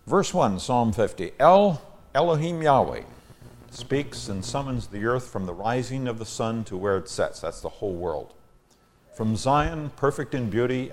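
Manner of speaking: measured, emphatic psalm reading; scripture reading. Acted. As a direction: proclaim the psalm to the congregation. Reads the psalm aloud.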